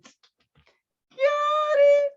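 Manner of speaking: sarcastic got it. Real, not acted. Sarcastic mock acknowledgement.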